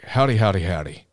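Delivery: a hint of a folksy cowboy, trailing off; Woody impression. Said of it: "'Cause he's Woody from Toy Story now".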